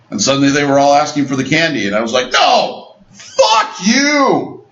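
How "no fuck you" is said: high mock bratty shout. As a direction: yell it high like a brat. Refusing candy, mock shout.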